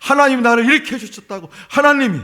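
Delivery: the freed people proclaiming God's rescue joyfully; joyful testimony. Pretend. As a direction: burst out telling it. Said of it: "만방에 막 노래해요".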